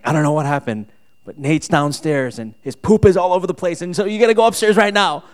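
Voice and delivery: wife's urgent complaint, mildly acted, rising in pitch; retold frantic wife. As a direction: build to an urgent order to go upstairs. Retold alarmed wife, demand building up.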